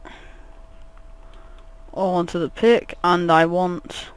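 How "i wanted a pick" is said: whispering. Real, not acted. Drawn-out whisper while playing.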